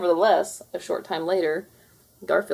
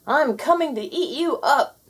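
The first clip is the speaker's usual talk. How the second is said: ghostly rumble; 9 semitones higher, 5 dB louder than usual. Acted. Ghost approaching.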